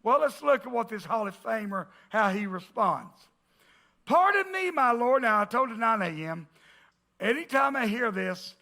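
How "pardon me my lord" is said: Pardon me raised high in a mock English accent; first quick stab at a posh English Gideon accent. Gideon answering the angel, light English accent. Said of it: "I hear it in an English accent".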